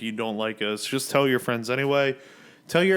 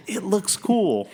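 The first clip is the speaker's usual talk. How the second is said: whispering; 7 semitones higher, 4 dB louder, slower than usual. Pretend. Teasing back and forth.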